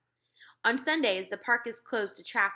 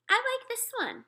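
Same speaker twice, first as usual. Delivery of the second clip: put-on much higher, smug little girl; possessive smugness. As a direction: claim it like she owns it. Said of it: "as if she owned the park".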